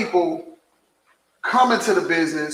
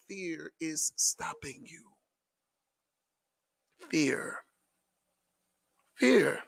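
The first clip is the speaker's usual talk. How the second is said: hushed emphasis; 2 semitones lower, 13 dB quieter, slower than usual. Real, not acted.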